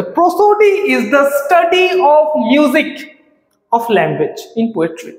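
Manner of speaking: very slow dictation pace, word by word; teacher dictating a definition, very slow. Shown as a demonstration. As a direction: read it out slowly for students to write down. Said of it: "একবার আমি দিয়ে রেখেছি, এটা লিখে রাখতে পারো".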